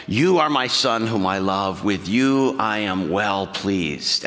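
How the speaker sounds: low, slow, tender voice of the Father; beautiful loving voice. Acted. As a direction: let the words fall slow and loving, like a proud father. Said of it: "this beautiful voice".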